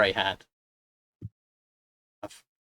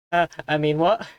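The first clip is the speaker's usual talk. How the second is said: put-on Welsh accent; 5 semitones higher, 6 dB louder than usual. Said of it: "This is supposed to be a Welsh accent".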